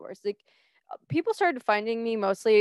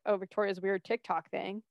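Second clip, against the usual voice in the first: dismissive; 7 dB quieter than usual. Retold or imitated. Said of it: "people would be like".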